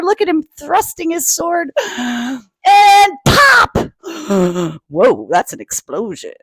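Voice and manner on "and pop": pop. Acted. Explosion sound word.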